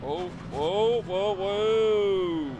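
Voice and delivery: rising to a loud excited yell; adrenaline rush. Real, not acted. Wild crash seen in race.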